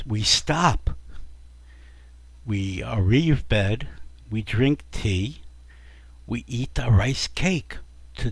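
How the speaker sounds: put-on slow, measured Japanese accent. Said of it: "Yakamura finally says to Irving".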